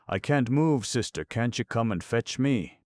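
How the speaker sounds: put-on a trapped little boy calling his sister in fright; frightened child. A narrator's reading. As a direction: cry out in fear, unable to move.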